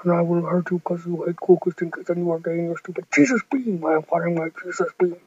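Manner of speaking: Jesus villain voice. Acted. Jesus threatening Bob Wobble Wobble before firing his beam. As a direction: growl it down low like a toy villain. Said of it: "I'm Jesus".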